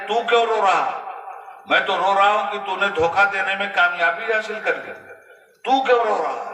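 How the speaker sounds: high, tearful voice, near weeping; tearful asking. Retold or imitated. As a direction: ask through tears, voice lifted high. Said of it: "आंख से भी आंसू चल रहे हैं". (ऊंची, भीगी आवाज़ में रोते हुए पूछना)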